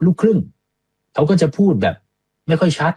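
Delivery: put-on a bystander brushing it off as his mixed-heritage accent; mock gossipy remark. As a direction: play the casual know-it-all shrugging it off. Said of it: "ก็คือคนบอก".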